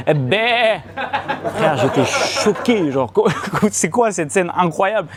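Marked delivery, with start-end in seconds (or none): 0.1-0.8 high imitated goat bleat. Girlfriend asked for the goat's noise, bleating. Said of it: "fait quoi comme bruit, la chèvre".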